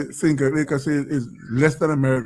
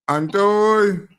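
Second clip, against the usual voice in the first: calling out; 4 semitones higher, 4 dB louder than usual. Real, not acted. Host calls caller onto line.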